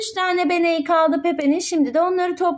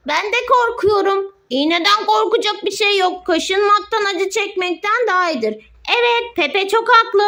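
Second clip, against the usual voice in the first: higher pitched toy voices, lightly acted; voiced toy patient; 6 semitones higher than usual. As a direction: speak as a nervous little toy at the doctor's. Mother voices scared toys.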